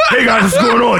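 vlogger greeting. Retold or imitated. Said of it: "imitating gym vlogger".

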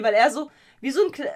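giggling through the words; breaking character giggling. Real, not acted. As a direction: laugh while explaining.

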